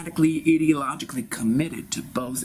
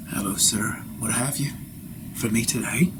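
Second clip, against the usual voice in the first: translator voice; 3 semitones lower than usual. Acted. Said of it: "there he is, my translator".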